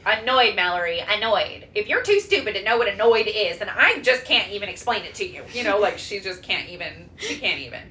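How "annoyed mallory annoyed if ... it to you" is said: mock-exasperated mom insisting; lightly voiced exasperated mom; imitating mom arguing. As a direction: play the mom scolding her daughter. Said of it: "we went back and forth".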